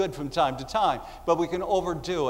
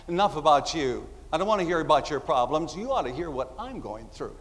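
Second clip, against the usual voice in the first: self-absorbed complaining. Retold or imitated. Self-absorbed person voiced mockingly.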